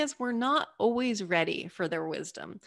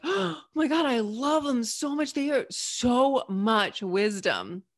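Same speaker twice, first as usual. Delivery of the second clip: gushing; 4 semitones higher, slower than usual. Retold or imitated. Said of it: "you come away being like".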